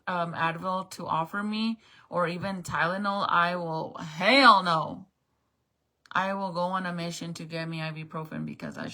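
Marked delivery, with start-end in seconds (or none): 3.9-5.1 loud, firm "hell no"; emphatic refusal. Real, not acted. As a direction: shut it down hard. Refusing Advil.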